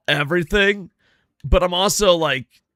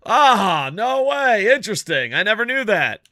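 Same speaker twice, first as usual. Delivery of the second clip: fake interest; 5 semitones higher than usual. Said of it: "And you're like".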